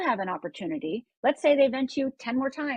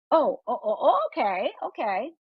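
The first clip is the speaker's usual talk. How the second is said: mock crying friend.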